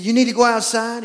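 cheery pet-talk voice; talking to the dog. Retold or imitated. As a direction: chat up the dog like a baby. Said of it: "I said".

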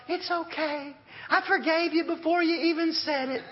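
sweet wife. Retold or imitated. Voicing his wife's forgiving reply.

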